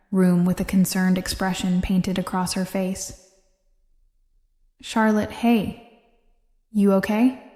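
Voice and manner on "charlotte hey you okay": gently checking on a friend; a touch of tender concern; gentle. A narrator's reading. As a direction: ask it gently, with mild concern. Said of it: "she asked gently".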